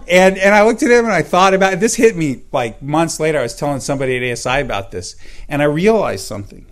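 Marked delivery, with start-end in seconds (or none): 0.0-2.4 laughing. Real, not acted. Laughs over the memory.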